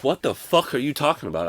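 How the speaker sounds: indignant retold outburst; incredulous outburst. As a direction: push back hard at his stepdad. Arguing with his stepdad.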